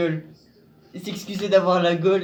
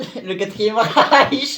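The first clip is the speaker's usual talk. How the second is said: solemn announcement; 4 semitones higher, 7 dB louder, much slower than usual. Acted. Mock solemn punchline.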